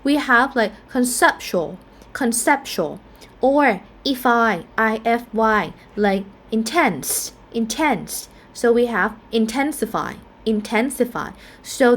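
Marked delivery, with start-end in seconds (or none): 0.5-3.0 "conceptual" with stress on the second syllable, cep. Shown as a demonstration. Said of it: "if we change it into adjective". 6.0-8.3 "intense" with stress on the last syllable, TENSE. Shown as a demonstration. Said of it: "they stress on the syllable before them". 8.5-11.3 "intensify" stressed on TEN, the syllable before -ify. Shown as a demonstration. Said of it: "they stress on the syllable before them".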